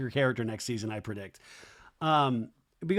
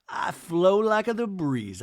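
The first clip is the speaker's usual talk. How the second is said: dreamy mock Dodie; 4 semitones higher, slower than usual. Dodie's talking head voiced.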